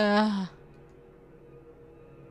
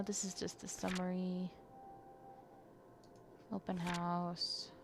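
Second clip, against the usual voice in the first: whisper; 2 semitones lower, 12 dB quieter than usual. Real, not acted. Murmuring while reading game journal.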